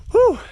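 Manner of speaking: winded exhale after trudging through snow; gasping for air. Real, not acted. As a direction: blow out a tired breath. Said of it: "out of breath".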